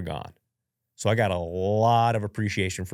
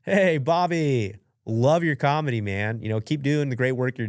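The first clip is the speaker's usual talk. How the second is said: rehearsed chill greeting; 4 semitones higher than usual. Retold or imitated. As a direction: play it relaxed, like a calm fan. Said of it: "We got the chill response".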